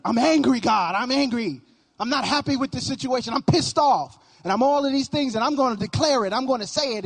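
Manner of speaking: loud, heated complaint thrown at God; a preacher acting out a believer's angry prayer, loud and heated. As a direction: vent it straight at God, fed up.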